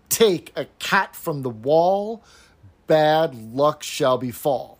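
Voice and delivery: slow, even beats on "Take a cat from the wall"; rhythmic recital. Shown as a demonstration. Host shows the trochaic rhythm to her co-host, in a slow measured chant. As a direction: tap out the meter as you say it. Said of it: "the first half had the same rhythm".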